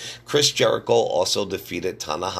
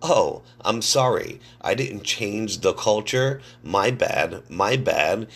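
mocking sarcastic apology; 4 semitones higher, slower than usual. Host mimics Miz mocking Punk.

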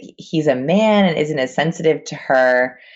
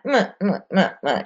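imitated baby fussing; 3 semitones higher than usual. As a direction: mimic a fussy baby, lightly. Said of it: "not crying".

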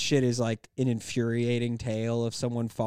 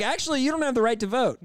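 1950s housewife voice; 8 semitones higher, faster than usual. Retold or imitated. Continues housewife mockery.

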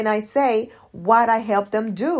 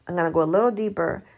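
fast throwaway repeat; quick repeat; 2 semitones lower, faster than usual. Shown as a demonstration. Coach repeating her promise quickly. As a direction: rattle it off quickly.

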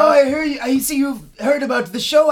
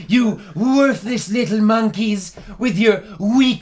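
arrogant elf overlord. Acted. Elf insults humans.

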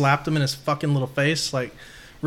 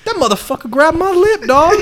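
much higher, louder mock Mikey, fuming; Mikey's voice; 12 semitones higher, 6 dB louder than usual. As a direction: play Mikey complaining, all worked up. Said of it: "Mikey goes".

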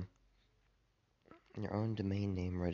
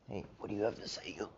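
whispering to cat; faster than usual. Real, not acted. Talking to his cat.

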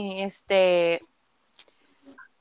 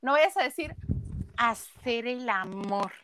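mimicking Negro Araiza; 4 semitones higher than usual. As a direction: play an older man brushing off the question. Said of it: "voltea y le dice". (imitando a un señor fastidiado, agudo y fuerte al principio)

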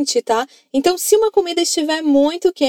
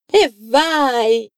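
lottery joy; 2 semitones lower than usual. Shown as a demonstration. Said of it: "Grita aí, vai".

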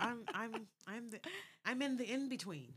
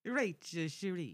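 Italian accent; 3 semitones lower, slower than usual. Shown as a demonstration. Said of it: "You gotta do it with an Italian accent".

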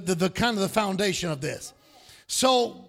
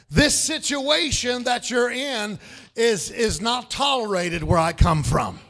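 preaching. Acted. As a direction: preach it with full force. Preaching at full force.

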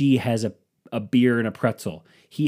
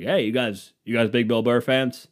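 fake friendly guy; 4 dB louder than usual. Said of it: "all the shit a fake person would say".

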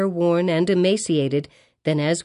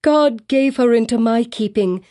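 higher and louder, close to a shriek; near shriek; 5 semitones higher, 4 dB louder than usual. A narrator's reading. Hester repeating her claim, nearly shrieking. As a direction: raise your voice almost to a shriek. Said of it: "raising her voice almost to a shriek".

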